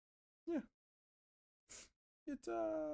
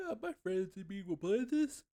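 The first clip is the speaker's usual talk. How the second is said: brightly hyped retelling, a bit louder and higher; excited self quote; 7 semitones higher, 6 dB louder than usual. Retold or imitated. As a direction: play your own eager past self. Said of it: "was like".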